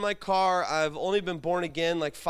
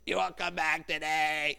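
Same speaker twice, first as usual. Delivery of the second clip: Glenn impression; 4 semitones lower than usual. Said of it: "Only Glenn".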